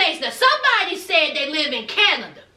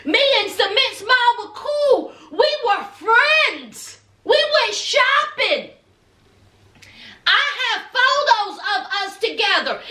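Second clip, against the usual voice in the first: 1 Jeannie defending; 3 semitones higher than usual. Retold or imitated. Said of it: "She said".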